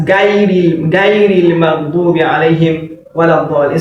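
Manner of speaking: "غير" with open ga instead of gho, fast; wrong-way recitation. Shown as a demonstration. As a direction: recite "غير" as the mistaken gain would give. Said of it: "it's not possible to say that".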